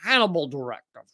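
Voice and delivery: lightly hinted Australian accent, mocking; a hint of an Aussie newsreader, tongue in cheek.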